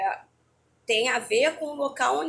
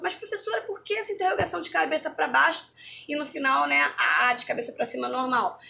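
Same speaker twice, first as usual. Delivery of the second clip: higher-pitched imitation of a questioning pupil; puzzled students' question; 4 semitones higher than usual. Students asking the teacher about upside-down question marks, imitated higher questioning voice. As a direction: lightly voice a student querying the teacher. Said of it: "E muitos alunos perguntam".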